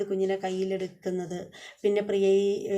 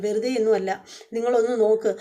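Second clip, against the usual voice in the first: louder, pressing the doctor to look; insistent demand; 5 dB louder than usual. Retold or imitated. Husband demanding the doctor check her, louder. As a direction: snap back, insisting hard.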